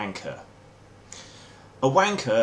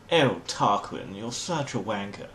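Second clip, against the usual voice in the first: upper-class disdain. Shown as a demonstration. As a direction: sneer it politely in received pronunciation. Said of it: "with disdain".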